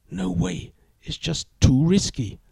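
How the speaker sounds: put-on high, anxious young woman; nervous girlfriend. A narrator's reading. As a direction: plead with him, worried. Girlfriend refusing.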